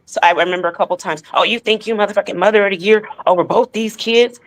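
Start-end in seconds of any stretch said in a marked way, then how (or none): 1.3-4.4 mocking quoted insult. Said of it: "I would always get said".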